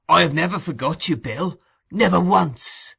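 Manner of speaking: wheedling. A narrator's reading. Fagin flatters Sikes.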